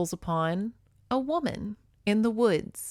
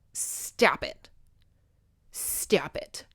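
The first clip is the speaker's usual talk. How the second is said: hushed scolding; 4 semitones lower, 4 dB quieter, much slower than usual. Retold or imitated. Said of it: "mother-in-law snaps her".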